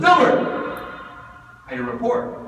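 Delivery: abrupt boss shouting out a name, then demanding; high, loud summons easing into a curt order; Trump. Acted. Boss comes to an employee wanting a report, loud and demanding. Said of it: "Trump comes to Dilbert and says".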